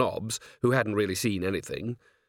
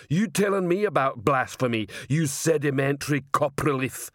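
slow, raised-pitch troll ultimatum; threatening troll; 5 semitones higher, slower than usual. Acted. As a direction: menace him as a troll enforcer.

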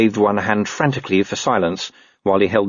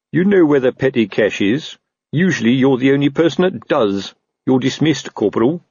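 officious officer dismissing an underling; lightly voiced superior, pitched up; curt captain; 5 semitones higher than usual. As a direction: order it with pompous authority. Narrator voices Colon dismissing Nobby.

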